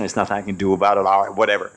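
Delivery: low, shrugging resignation; an aging father conceding to his son; resigned old father. Retold or imitated.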